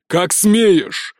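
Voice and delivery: slow, menacing prince's shout; furious prince shouting at his daughter. A narrator's reading. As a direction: threaten her slowly, every word a blow. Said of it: "закричал принц".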